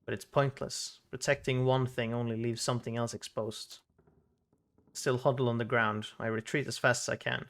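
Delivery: measured, even storytelling with pauses; story narration. Acted. Reading a boy's painful memory aloud, story narration.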